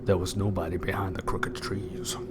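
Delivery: soft whispered reading; spooky whisper. A narrator's reading. Reading the dark forest lines, soft spooky whisper. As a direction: let it fall to a hush.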